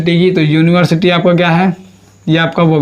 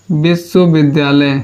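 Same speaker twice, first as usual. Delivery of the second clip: slow demo; slower than usual. Shown as a demonstration. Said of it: "इसकी हिंदी तो होती है".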